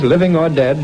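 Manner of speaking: usual speaking voice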